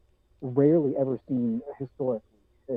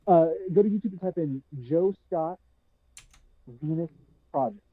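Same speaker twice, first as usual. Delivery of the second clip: muffled; 2 semitones higher than usual. Real, not acted. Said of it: "it was extremely muffled".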